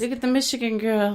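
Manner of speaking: imagined Southern local. Acted. Locals pointing out the Michigan newcomer, mock Southern voice. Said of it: "Oh, they'll be like".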